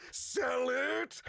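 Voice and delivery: shouted sell it. Shown as a demonstration. Second take, shouted.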